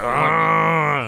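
loud startled gasp of a word; startled by the bear; surprised ah. Retold or imitated. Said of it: "And be like".

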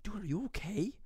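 high, soft imitation of a worried brother; concerned brother. Brother checking on screaming gamer, concerned brother. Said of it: "my brother walked in and goes".

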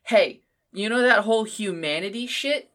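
cocky, loud, teasing quote of the author; playful mock bravado; mock author boast. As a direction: boast like a showman about to do a trick. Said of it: "he does where he's like".

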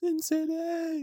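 high, slow, drawn-out Sin City; dramatic movie-trailer voice. Pretend. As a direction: intone the title like a trailer. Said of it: "that's not how at all".

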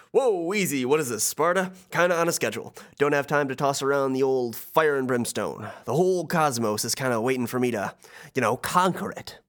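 breezy, mocking god of the dead; Hades voice. Hades waving off the heroes' weapons, lightly voiced. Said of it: "and so Hades says".

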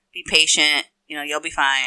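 quiet retold inner pep talk; self-soothing. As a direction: talk yourself down under your voice. Calming herself in inner conversation.

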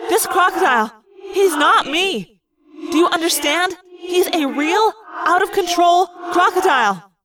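high, emphatic warning; crying out urgently. A narrator's reading. Girl warning Cassie of the crocodile, crying out urgently. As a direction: press every phrase home in alarm. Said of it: "I cried as soon as".

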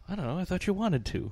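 exaggerated cartoon intonation. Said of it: "Why are you talking like that?".

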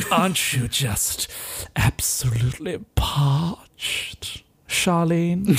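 slow, drawn-out sly temptation; sly tempter. Retold or imitated. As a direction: tempt her slowly. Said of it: "He's like".

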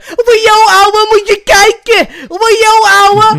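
high shouted street slang voice; Moroccan Dutch street slang. Retold or imitated. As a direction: yell it like a hyped street kid. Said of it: that it sounds like a Dutch singer.

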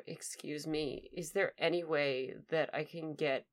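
softly, haltingly polite; composed request. Acted. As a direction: ask politely after a steadying breath, pausing between phrases. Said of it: "take a deep breath".

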